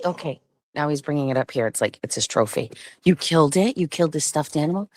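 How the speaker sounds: ordinary talk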